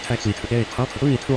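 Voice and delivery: pilot over the radio. Acted. Pilot radio readback in sim.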